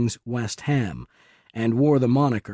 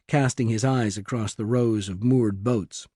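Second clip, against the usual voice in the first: ordinary delivery, nothing marked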